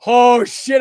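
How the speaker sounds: loud, high burst of surprise; surprised shout. Real, not acted. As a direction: jump up at the news. Own name drawn in giveaway.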